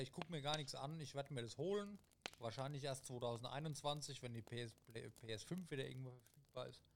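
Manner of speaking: talking while chewing; mouth full. Real, not acted. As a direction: talk through a mouthful. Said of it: "Podcast mit vollem Mund".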